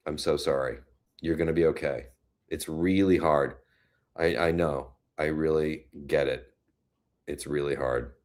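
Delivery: low, soft, gentle sympathy; consoling. Real, not acted. Host to viewer putting her dog down, consoling.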